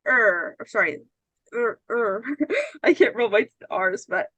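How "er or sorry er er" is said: er tried as a rolled R, then given up; rolled R attempt. Shown as a demonstration. Teacher tries to show a rolled R, laughing. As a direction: try to roll the R on er and break into a laugh. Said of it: "You say".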